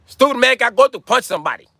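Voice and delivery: high, loud, hammed-up Asian accent; mock Asian accent. Shown as a demonstration. Asian man threatening to punch somebody, mock Asian accent.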